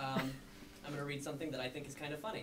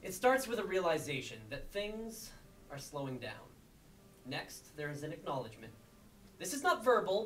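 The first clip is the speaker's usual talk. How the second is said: emphatic mock-lecture with deliberate pauses; spoken-word poem. Poet explaining goodbye as a science, emphatic spoken-word delivery. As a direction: lift and punch the openings, drop away on the asides.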